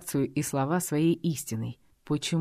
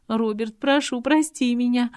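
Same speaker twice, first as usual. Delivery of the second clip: higher, louder, slow begging through tears; tearful plea; 9 semitones higher, 5 dB louder, slower than usual. A narrator's reading. Girl begging Robert's forgiveness, bursting into tears. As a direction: beg forgiveness on the verge of sobbing. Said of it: "Девушка разрыдалась".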